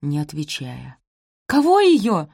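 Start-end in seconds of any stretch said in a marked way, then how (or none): 1.5-2.3 high, loud baffled question; puzzled. A narrator's reading. Daughter cannot follow her mother's words, baffled. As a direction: jump in, not understanding. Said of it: "не поняла Розамунд".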